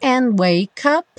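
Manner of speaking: "And wake up" run together as one smooth phrase; linked together. Shown as a demonstration. Teacher shows students the three words joined. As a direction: join "And wake up" without gaps. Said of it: "juntando as três palavras".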